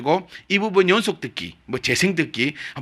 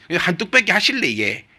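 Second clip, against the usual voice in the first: Robert Halley; 3 semitones higher than usual. Retold or imitated. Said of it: "이 로버트 할리만 기억나시죠?".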